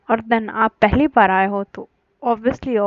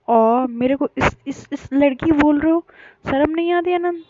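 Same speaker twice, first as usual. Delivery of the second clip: offended; 5 semitones higher than usual. Acted. Called "this girl" by her sister.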